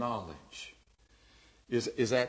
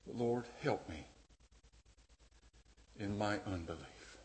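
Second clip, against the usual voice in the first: much softer, fading into a whisper; hushed prayer; 4 semitones lower, 12 dB quieter than usual. Retold or imitated. The father praying to Jesus, hushed and fading to a whisper. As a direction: pray it quietly, confessing.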